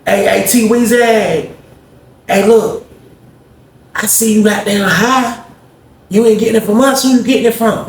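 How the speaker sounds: a cellmate teasing T Weezy from the door; Greg's flirty voice. Retold or imitated. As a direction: coo it high like you're sweet on him. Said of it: "He like".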